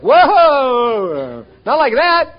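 high, loud mock alarm; startled protest. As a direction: balk as if God went too far. Mock protest when God uses us.

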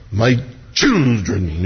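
slow, low, solemn mock prophecy; mock prophetic voice. Mocking a tongues speaker's lofty prophecy, slow and low. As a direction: drag out My children like a hammed-up oracle. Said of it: "does he talk like that?".

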